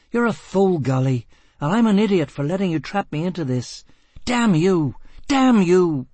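furious tirade. A narrator's reading. Gisbella raging at Foyle.

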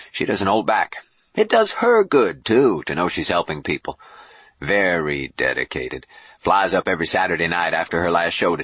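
animated showman bishop; boastful bishop. Acted. Boone tells Jubal about Dawn's act, boastful and animated. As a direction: talk her up with swooping pitch.

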